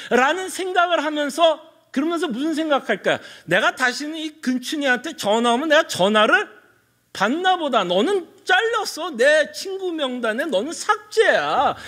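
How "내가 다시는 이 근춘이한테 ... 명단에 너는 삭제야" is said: 높은 음으로 못 박듯 말하는 절교 연기; 뒤로 갈수록 천천히, 높게 끊어 내는 흉내. Acted. 무례한 친구와 절교하는 갑돌이 연기. (화난 친구가 절교하듯)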